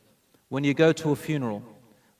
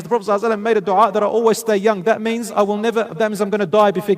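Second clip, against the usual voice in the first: higher, louder, fast distressed complaint; upset girl; 6 semitones higher, 6 dB louder, faster than usual. Retold or imitated. Orphan girl telling Umm Sulaym why she cries, distressed. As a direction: blurt it out upset.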